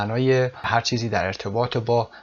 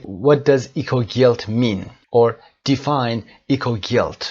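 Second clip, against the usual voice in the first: 1 slow model question; 4 dB louder, much slower than usual. Shown as a demonstration. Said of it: "teacher models the question slowly".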